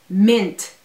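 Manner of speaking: mint said the English way. Shown as a demonstration. Teaching the English way to say mint. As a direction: say mint plainly, English vowel. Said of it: "For example".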